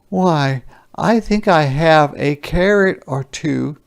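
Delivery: eager villager Francois. A narrator's reading. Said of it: "said Francois".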